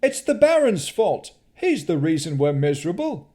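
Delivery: high, loud accusing cry; angry yell. Acted. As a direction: shout blame from the crowd. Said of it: "Then someone yelled".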